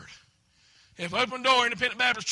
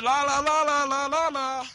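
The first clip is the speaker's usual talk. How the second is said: 1 wife tuning out; 3 semitones higher than usual. Retold or imitated. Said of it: "You know what she does?".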